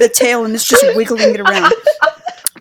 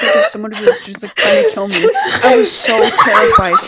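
high-pitched; 12 semitones higher than usual. Real, not acted. Recalling terror, laughing.

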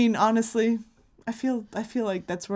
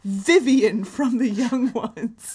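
mock grand announcement; 3 dB louder, much slower than usual. Real, not acted.

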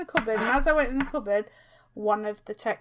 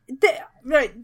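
normal talking voice

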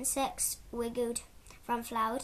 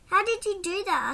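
put-on high, amazed child's question; astonished; 7 semitones higher, 7 dB louder than usual. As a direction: she can't believe what she saw. Serena amazed by vanishing.

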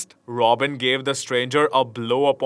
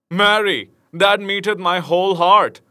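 raised, higher cry of delight; hearty high exclamation; stranger cries out; 6 semitones higher, 5 dB louder than usual. A narrator's reading. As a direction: call it out gladly. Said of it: "cried the stranger".

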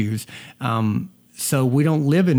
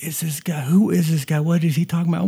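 higher-pitched mock bewilderment; baffled coworkers; 5 semitones higher than usual. Boston coworkers reacting to the new guy, imitated bafflement. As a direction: imitate people puzzled by a stranger. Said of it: "they were just like".

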